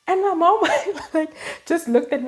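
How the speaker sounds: can't hold back the laugh. Real, not acted. Telling viewers about mom, laughing.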